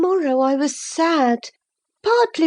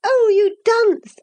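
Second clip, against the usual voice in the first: higher, louder, slow laughing taunt; higher teasing cry, laughing; mocking laugh; 9 semitones higher, 3 dB louder than usual. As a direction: laugh at him as you say it. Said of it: "laughing heartily at his failure".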